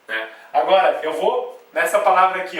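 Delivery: ordinary delivery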